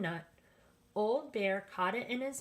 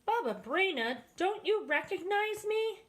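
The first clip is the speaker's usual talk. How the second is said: rabbi; 11 semitones higher, 3 dB louder than usual. A narrator's reading. Rabbi speaks.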